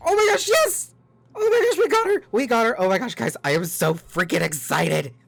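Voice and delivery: very high, very loud shrieks of joy; excited screaming. Real, not acted. Gamer finally gets the wished-for character, screaming with excitement. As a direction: scream with real elation, maxing out the mic. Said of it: "sorry if I'm screaming too loud".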